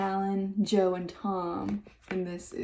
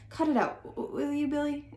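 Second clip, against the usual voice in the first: nervous chuckle; 6 semitones higher than usual. A narrator's reading. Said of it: "chuckling nervously".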